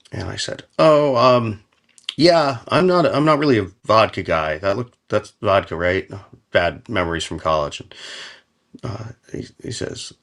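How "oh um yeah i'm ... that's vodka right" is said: high, hesitant decline; awkward polite refusal. Retold or imitated. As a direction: squirm out of the drink politely.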